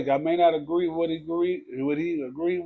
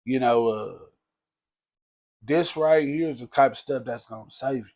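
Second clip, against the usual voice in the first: mild imitation of his preaching. Cousin preaching to the narrator, lightly voiced and earnest. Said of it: "that's the way he talked".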